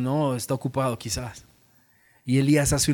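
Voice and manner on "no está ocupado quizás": mock excuse. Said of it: "ellos dicen".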